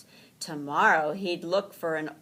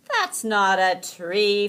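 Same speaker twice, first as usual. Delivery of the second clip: slow, louder correction; Franklin correcting; 4 semitones higher, 10 dB louder than usual. A narrator's reading. Franklin tells Rabbit the twig is no tree, slow and loud. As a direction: spell it out slowly. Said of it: "Franklin explained".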